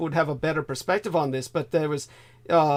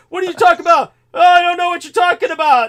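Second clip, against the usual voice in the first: mock innocent driver; 11 semitones higher, 8 dB louder, faster than usual. Driver voiced playing dumb.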